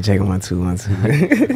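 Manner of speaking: radio-style mic check; quiet storm voice. Pretend. Guest playfully testing the mic, radio voice. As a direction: test the mic like a radio host. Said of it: "Quiet storm voice".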